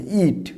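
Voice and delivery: "ইট" held on a long ee; long vowel. Shown as a demonstration. Teacher repeating the verb eat, drawn-out vowel. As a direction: pull the vowel of "ইট" out a little. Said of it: "একটু টান দিয়ে".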